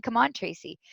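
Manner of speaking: quiet bewildered echo of the shout; puzzled repeat. Retold or imitated. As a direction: repeat it to yourself, baffled. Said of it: "Why are they saying".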